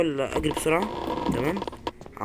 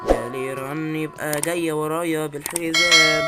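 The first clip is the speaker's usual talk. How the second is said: rising, drawn-out cry of dread; alarmed; 3 semitones higher, 6 dB louder, slower than usual. Real, not acted. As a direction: stretch it out in mounting alarm. Alarmed that the monster is chasing.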